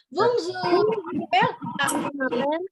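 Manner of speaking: "Bonjour, je m'appelle" spoken slowly, French sounds, vong-zhoo zhuh mapel; a slow model sentence for kids to copy; slow French introduction. Shown as a demonstration. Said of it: "nama saya Ira Latif misalnya". (perkenalan Prancis diucapkan pelan-pelan)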